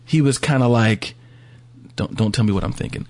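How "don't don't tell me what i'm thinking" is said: mildly beaten-down mock host, slightly low. Imitating the disillusioned fan host to co-hosts, beat down. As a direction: imitate someone worn down, voice sinking a little. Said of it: "more and more beat down".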